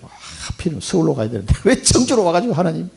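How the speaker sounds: mock grumbling with a laugh; lightly acted, amused whining protest; retold complaint. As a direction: replay an old gripe to God, half laughing. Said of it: "불평했거든, 하나님 앞에".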